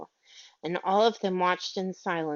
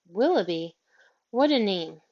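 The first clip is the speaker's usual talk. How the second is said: despairing; 3 dB louder than usual. Acted. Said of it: "said Miss Lark despairingly".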